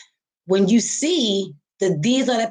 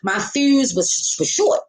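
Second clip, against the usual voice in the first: retold annoyance, pitch pushed up; agitated; 5 semitones higher than usual. Recounting her short fuse to viewers, mock agitated. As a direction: mimic being fed up, drawing out the end. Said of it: "I was so agitated, so fucking annoyed".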